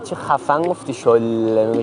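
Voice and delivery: slow teasing drawl on شل; mocking a stretched shol. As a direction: drag out شل slowly in a mock drawl. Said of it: "کش دادی ها".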